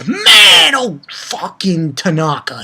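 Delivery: high yelled sneer at the foe; villain taunt. Retold or imitated. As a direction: bark the taunt like a gloating villain. Villain Ogata taunting Tanaka.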